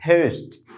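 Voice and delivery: পোস্ট with puffed p and gliding "ou"; aspirated, diphthonged পোস্ট; corrected English pronunciation. Shown as a demonstration. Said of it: "উচ্চারণটা হবে ফ".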